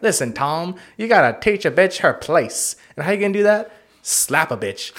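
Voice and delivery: mock-instructive pimp voice; A Pimp Named Slickback. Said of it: "he was trying to teach Tom".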